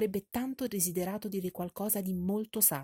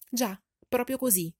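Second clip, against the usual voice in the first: higher, louder eager exclamation; exclaiming; 5 semitones higher, 7 dB louder than usual. A narrator's reading. Mother exclaiming about the ball, higher and louder. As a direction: burst in eagerly. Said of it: "esclamò la madre".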